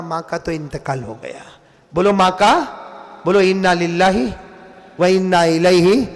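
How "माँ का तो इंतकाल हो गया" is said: much softer, much lower and hushed; softly breaking the death news; hushed, grave. A narrator's reading. Neighbours announce the death.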